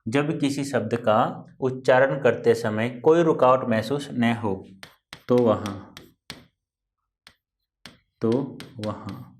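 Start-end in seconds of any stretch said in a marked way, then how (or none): 5.3-9.3 slow, low, word by word; dictating the rule slowly; slow dictation. Shown as a demonstration. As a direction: dictate the rule, pausing for pens. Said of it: "तो क्या कहा मैंने?".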